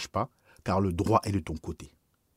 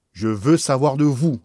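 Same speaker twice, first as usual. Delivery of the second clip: insistent; 4 semitones higher, 8 dB louder than usual. Acted. Bishop presses the priest.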